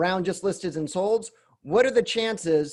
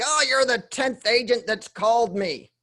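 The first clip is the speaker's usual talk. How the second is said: put-on higher, drawn-out grumbling old homeowner; mock old person; 5 semitones higher than usual. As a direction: play a put-on old-person voice, pitched up and slow. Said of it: "That's my old person. That's my expired voice".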